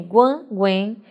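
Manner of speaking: GUAN and GUEN with nasal vowels; nasal endings. Shown as a demonstration. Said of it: "terminações em som nasal".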